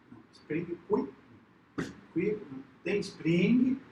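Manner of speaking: Portuguese with an Italian lilt, slow; Italian accent. Retold or imitated. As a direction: play the Roman waiter, drawn out. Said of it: "bem do jeito italiano".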